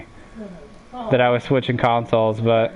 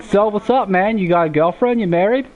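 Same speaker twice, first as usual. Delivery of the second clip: higher-pitched Jersey guy impression; nosy Jersey dude, pitched up; imitated Jersey accent; 7 semitones higher than usual. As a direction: do a hardcore New Jersey gamer. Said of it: "The hardcore Jersey accent".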